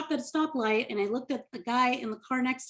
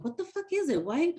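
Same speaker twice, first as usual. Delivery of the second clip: high-pitched impatient questioning; mock impatience; 5 semitones higher, 3 dB quieter than usual. Comic retelling friend digging in purse, mock impatient excitement. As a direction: pitch it up, itching to find out.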